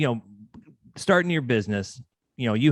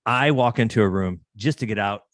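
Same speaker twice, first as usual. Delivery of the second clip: ordinary talk, nothing marked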